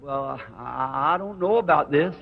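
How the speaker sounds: hesitant, stammering start; acted-out unsure stammer; nervous fumbling. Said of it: "I was fumbling real nervous".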